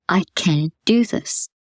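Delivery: slow, kind and gentle affirmation; nice gentle voice. Shown as a demonstration. Coach models gentle self-encouragement for listeners. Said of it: "Nice, gentle voice".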